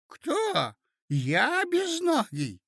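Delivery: very high, drawn-out astonishment; affronted old prince. Acted. Prince told he has no legs, affronted. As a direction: question it in a piping old voice.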